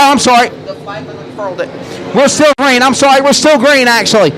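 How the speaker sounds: fast race-call commentary; live play-by-play. Real, not acted.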